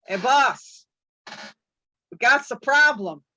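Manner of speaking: two thugs speaking as one; lightly voiced bear henchmen reporting to the boss; bear twins in unison. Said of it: "they say in unison".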